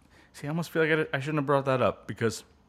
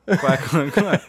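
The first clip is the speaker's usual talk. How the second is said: duck quacking; 5 semitones higher, 9 dB louder, slower than usual. Retold or imitated. Duck quacking impression, louder.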